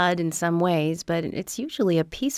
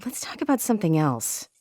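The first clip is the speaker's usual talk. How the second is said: firm cut-off; 3 semitones lower than usual. Acted. Officer stops agent's grisly tales, firm cut-off. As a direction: shut the topic down politely but firmly. Cuts off grisly dinner talk.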